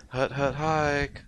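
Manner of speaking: slow, drawn-out snap call; quarterback calling cadence. Pretend. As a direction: bark out the snap count slowly.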